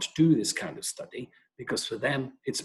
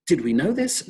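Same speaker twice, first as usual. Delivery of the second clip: retold angry question; 5 semitones higher, 6 dB louder than usual. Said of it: "And he started swearing".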